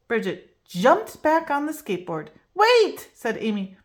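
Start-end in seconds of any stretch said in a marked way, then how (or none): 2.5-3.1 calling out. A narrator's reading. Amy stops Bridget.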